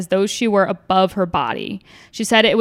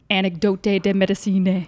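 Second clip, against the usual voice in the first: put-on French title in an Italian accent. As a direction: say "Anecdote de Medicine" with Italian vowels. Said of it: "Beautiful Italian pronunciation".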